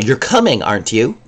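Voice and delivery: "coming" falling, then "aren't you" rising; assuming tag question. Shown as a demonstration. Teacher showing a tag question that assumes yes. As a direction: state it, then check with the tag. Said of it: "gives the implication that I assume".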